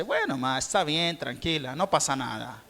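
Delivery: softly voiced child, falsely calm; quiet sarcastic little-child voice; a baby pretending to be fine; mock calm toddler. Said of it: "él dice".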